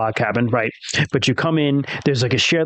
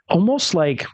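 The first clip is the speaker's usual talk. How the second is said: whispering; 6 semitones higher, slower than usual. A narrator's reading. Straining to listen in silence.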